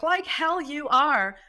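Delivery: high, slow, emphatic disbelief; retold incredulity. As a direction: scoff it back in mock outrage. Retells profane disbelieving reply.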